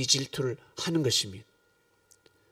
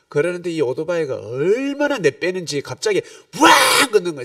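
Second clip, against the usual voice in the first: heated retelling; 4 semitones higher, 9 dB louder than usual. Retold or imitated. Imitating motorbike noise.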